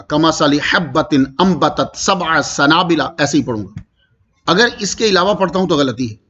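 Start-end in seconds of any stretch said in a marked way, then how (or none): 0.0-3.0 slow chanted Arabic with حبۃ fully voiced; drawn-out recitation cadence; tilawat recitation. Shown as a demonstration. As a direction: recite it as in the Quran. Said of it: "تو حبۃ ہی پڑھوں گا".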